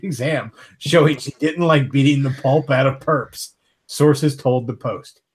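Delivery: casual reading of a news story aloud; podcast host reading an article. Acted. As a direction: read the headline and story to the group.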